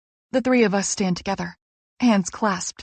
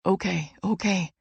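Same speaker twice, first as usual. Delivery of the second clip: soothing; 6 dB quieter than usual. A narrator's reading. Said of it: "Jake soothes".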